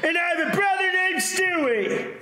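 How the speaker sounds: high shouting cartoon voice; Chris Griffin voice. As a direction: yell it like a cartoon teen.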